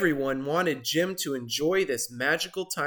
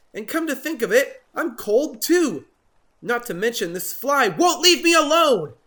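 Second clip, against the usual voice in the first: much higher, louder whine; whiny complaining; 8 semitones higher, 5 dB louder than usual. Acted. Jim whining to Norman, miserable. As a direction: whine through the list.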